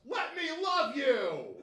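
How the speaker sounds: high, slow, drawn-out crooning plea; mock pet-owner plea. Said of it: "screaming this across their house".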